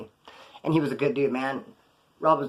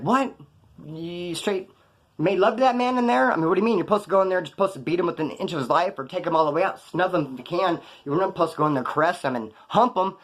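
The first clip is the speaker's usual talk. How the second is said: incredulous; 3 semitones higher than usual. Retold or imitated. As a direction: play the guys who can't believe what they just heard. Inmates question the attacker incredulously.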